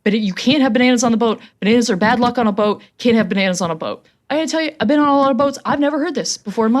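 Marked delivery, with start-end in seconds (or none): 0.0-4.0 freaking out. Retold or imitated. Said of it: "he starts freaking".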